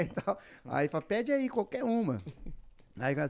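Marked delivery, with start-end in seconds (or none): 1.0-2.2 Bob Esponja. Acted. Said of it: "o Bob Esponja faz imitações".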